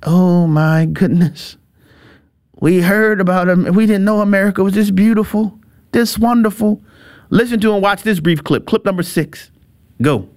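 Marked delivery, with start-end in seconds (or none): 0.0-6.8 amazed visitor. Retold or imitated. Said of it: "And they're like".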